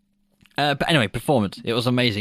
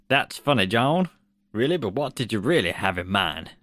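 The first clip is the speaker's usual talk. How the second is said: mild American accent impression of Spielberg; a light put-on American voice; half-hearted Spielberg American accent. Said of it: "here's my American accent".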